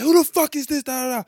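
high mock demanding general; angry general. Retelling to friends, the general demands who he is, high mock voice. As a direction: pitch up and demand it.

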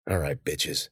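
low, soft, grim mutter. A narrator's reading. Cece muttering at the vines before attacking. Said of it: "she muttered".

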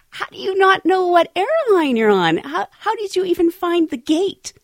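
high, loud disbelief; retold exasperated astonishment; incredulous. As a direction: throw the question back, loud and high. Retold incredulous reply to passenger.

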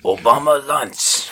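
slow, loud mock Asian accent laughing; exaggerated Asian accent. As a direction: stretch it out in a broad Asian accent. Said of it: "we're all doing a grossly exaggerated Japanese accent".

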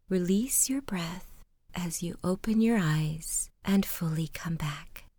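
soft, measured guided meditation voice; guided relaxation. Acted. Storyteller guides listeners to open their eyes, calm meditation.

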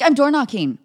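loud, high exasperated blurt. Retold or imitated. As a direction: blurt it out, fed up. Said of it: "I was like".

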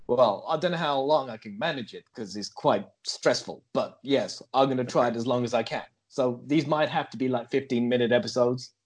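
put-on American accent held with effort; comic American podcaster. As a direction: keep up a stagey American voice.

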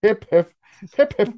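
lightly voiced mock British cheer; British accent. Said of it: "how to do a fucking accent".

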